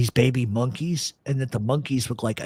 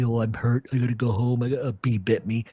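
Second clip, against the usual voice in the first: lightly put-on sulky complaint; pouty. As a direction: imitate a kid playing up being hurt. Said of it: "doing the whole pouty".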